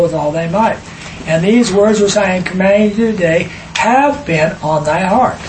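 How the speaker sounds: solemn, measured reading of the Bible verse; scripture reading. Acted. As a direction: read it out like holy writ in church. Reads scripture aloud.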